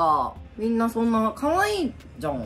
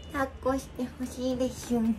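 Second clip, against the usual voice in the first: put-on baby talk; 7 dB quieter than usual. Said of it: "タラちゃんやん".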